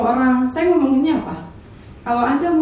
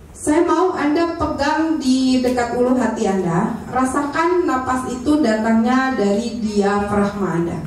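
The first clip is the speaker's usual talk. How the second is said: slow, measured instructor voice; guided breathing; slower than usual. Shown as a demonstration. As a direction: guide them slowly through a breathing exercise. Memandu latihan pernapasan. (memandu latihan napas dengan pelan)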